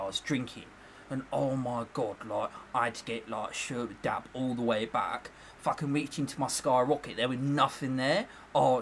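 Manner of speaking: mock-weary Essex storyteller; Essex boss. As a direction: imitate a boss telling his tale in Essex accent. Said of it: "My boss speaks like that".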